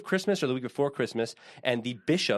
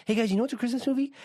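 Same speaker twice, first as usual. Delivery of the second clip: cheesy announcer; 9 semitones higher, faster than usual. Pretend. Jokey announcer-style pitch.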